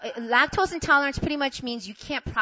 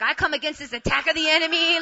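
loud, raised prayer voice; fervent prayer; 7 semitones higher, 8 dB louder than usual. Retold or imitated. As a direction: imitate forceful praying against the devil. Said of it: "He started praying in the spirit".

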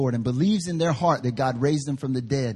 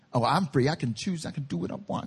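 hushed, offhand musing; casual musing; 6 dB quieter than usual. Acted. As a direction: muse it quietly, almost to yourself. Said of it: "God's standing up there like".

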